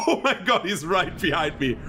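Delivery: high panicked yelp; sudden alarm, voice jumps up. Real, not acted. Enemy right behind him.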